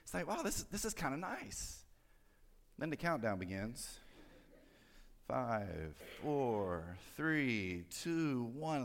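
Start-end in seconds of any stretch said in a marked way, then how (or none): 0.3-1.9 high, soft, slow wonder; pleasantly surprised. Acted. Shopper in line liking the company, pleasantly surprised. 5.3-8.8 low, soft count, rising gradually; suspenseful countdown. Acted. Preacher counting to the store doors opening, suspenseful.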